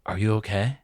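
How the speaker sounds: low, casual retold check-in; imitating a nonchalant character. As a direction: mimic someone oddly unbothered. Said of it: "he just nonchalantly goes".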